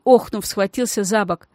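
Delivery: usual speaking voice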